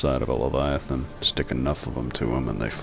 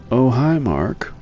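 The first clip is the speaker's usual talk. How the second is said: loud movie quote impression; 14 semitones higher, 8 dB louder, slower than usual. Quoting a famous movie line.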